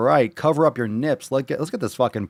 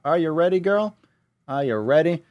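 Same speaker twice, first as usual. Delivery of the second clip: higher coaxing pet voice; baby talk; 6 semitones higher than usual. Acted. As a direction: coax it like a pet. Talking to dumbbell like a pet.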